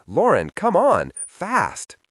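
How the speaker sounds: high, loud urgent call; urgent shout. A narrator's reading. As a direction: yell at her to hurry. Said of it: "Kaylee shouts".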